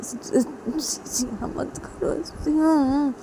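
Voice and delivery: frightened husband whispering to his wife; scared whisper. Acted. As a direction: beg her to stop in a frightened hush. Scared husband begs Siya stop.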